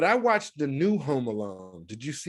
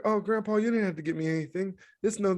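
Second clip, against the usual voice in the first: put-on grateful kid voice; 5 semitones higher, faster than usual. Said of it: "he's like".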